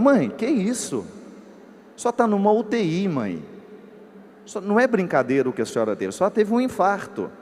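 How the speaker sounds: high, exasperated scolding of mother; mock-cross, pitch jumping up; retold anger. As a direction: scold your mother in indignant disbelief. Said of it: "eu fiquei bravo".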